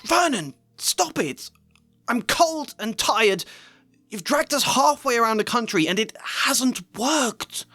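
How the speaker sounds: a wife shrieking at her husband. Acted. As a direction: scream at her husband to stop.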